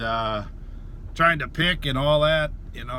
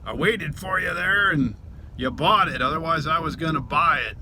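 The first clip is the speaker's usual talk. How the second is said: retold remark; 4 semitones higher than usual. Telling the buyer he'd waited for it, retold chatty remark. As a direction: own retort retold, a bit higher. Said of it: "I think I said something like".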